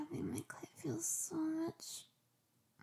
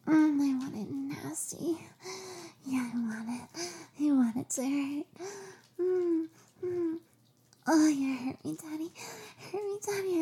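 loud moaning pleas; 6 dB louder than usual. Acted. Rough sex pleading.

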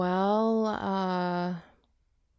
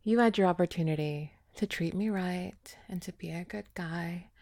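whispering; 4 semitones lower, 5 dB quieter than usual. Acted. Taunting ex in a whisper.

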